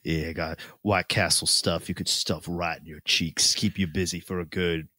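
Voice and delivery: lightly low seductive voice; a hint of seductive purr; sultry voice. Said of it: "Should we do sultry voice for this?".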